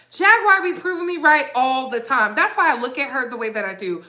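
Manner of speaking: usual speaking voice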